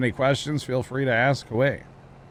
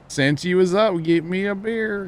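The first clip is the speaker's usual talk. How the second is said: higher, louder hammed-up Missouri redneck; redneck Foxworthy bit; 9 semitones higher, 3 dB louder than usual. Quoting redneck talk to chat, hammed-up Missouri accent. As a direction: ham it up like an old Jeff Foxworthy bit. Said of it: "That's old school Jeff Foxworthy".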